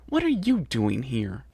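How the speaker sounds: slow hissed demand. Acted. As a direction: spit it out slowly at him. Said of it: "Chrysalis hissed".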